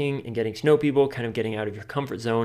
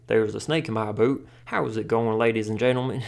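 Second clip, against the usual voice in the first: country voice. Pretend. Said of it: "Let's be country today".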